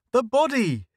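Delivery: high, loud shout. A narrator's reading. Ed yelling at the gathering crowd, high and loud. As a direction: yell it out in horror. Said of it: "Ed shouted".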